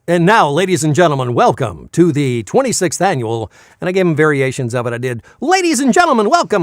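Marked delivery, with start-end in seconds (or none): 0.1-3.5 a hint of a booming announcer; lightly voiced promo guy. Shown as a demonstration. Voice actor redoes the gala promo, lightly voiced announcer. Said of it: "Do the promo guy". 5.4-6.6 much higher and louder, hammed-up announcer; over-the-top announcer. Shown as a demonstration. Voice actor shows a too-big take, hammed-up announcer. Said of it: "and that was too much".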